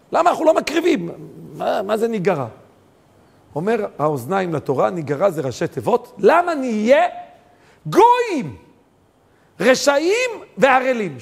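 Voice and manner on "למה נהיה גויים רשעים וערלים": high, loud proclamation; preaching. Acted. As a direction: build up the acronym forcefully. Preaching at full force. (הטפה בלהט ובקול רם)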